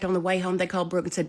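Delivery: usual speaking voice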